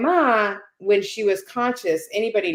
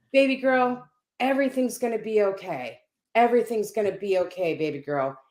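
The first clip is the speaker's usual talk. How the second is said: retold reassurance. Dying mother sits up to comfort Vivian, retold reassurance.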